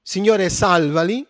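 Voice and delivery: crying out. Retold or imitated. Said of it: "Mosè gridò al Signore".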